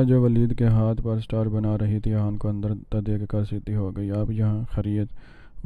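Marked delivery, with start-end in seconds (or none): 4.1-5.6 slow, serious and guarded; serious question. A narrator's reading. Teacher to visiting brother, slow serious question. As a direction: ask it coolly, unsmiling. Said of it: "وفا نے سنجیدگی سے پوچھا".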